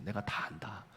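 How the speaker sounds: gentle divine voice. Acted. God's gentle voice quoted.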